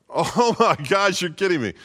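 hammed-up stunned wife; shocked wife. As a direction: stretch out the "oh my gosh" in shock. Wife hears husband fell.

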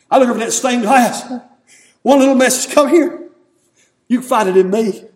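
high, emphatic preacher's delivery; fervent pulpit storytelling. Real, not acted. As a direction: lift the voice to call out the message. Preaches with raised voice.

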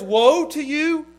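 preacher voicing Jesus; solemn warning. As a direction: draw out "Woe". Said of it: "It's like Jesus says".

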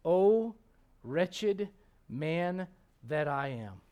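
quiet, slow, drawn-out lament; solemn lament. Acted. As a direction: let each word sink, mournfully. Reading lament slowly.

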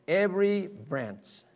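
"Every branch" said slowly, each word weighted; emphasis on "Every branch". Shown as a demonstration. Preacher showing the congregation how personal the verse is, slow emphasis on "Every branch". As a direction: draw out "Every branch" to stress it. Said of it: "he's putting the emphasis on the branch".

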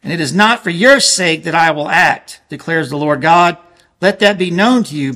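usual speaking voice

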